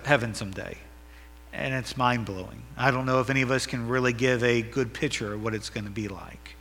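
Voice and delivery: earnest, softening pastor's prayer. Acted. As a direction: pray for the church. Leads congregation in prayer.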